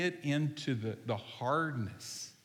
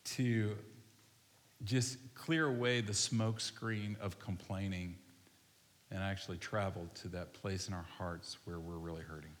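hushed, lowered voice leading a congregation in prayer; slow prayer; 3 semitones lower than usual. Real, not acted. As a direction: pray unhurriedly, leaving room to reflect. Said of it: "I'm gonna pray really slow".

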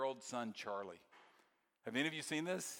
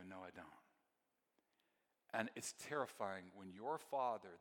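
soft, hushed preaching, much quieter; tender sermon close; 5 semitones lower, 10 dB quieter than usual. Real, not acted. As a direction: draw them in gently, like a confession. Soft, intimate closing of sermon.

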